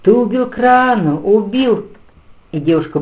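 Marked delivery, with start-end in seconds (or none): 0.0-1.9 shrill screeching. A narrator's reading. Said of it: "пронзительно завизжала".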